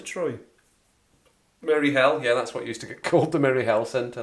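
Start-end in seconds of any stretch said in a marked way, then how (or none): 1.6-2.2 "Merry Hell", with Hill said as Hell; local nickname pronunciation. Shown as a demonstration. Recalling what locals called the centre, "Hell" in place of Hill. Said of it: "That's what we used to call it". 3.3-4.2 "Merry Hell Centre", Hill turned to Hell; local nickname pronunciation. Shown as a demonstration. Recalling what locals called the centre, "Hell" in place of Hill. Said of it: "That's what we used to call it".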